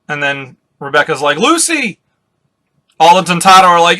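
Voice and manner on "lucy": high-pitched cry of a name; acted high-voiced call. Rebecca calls out to Lucy.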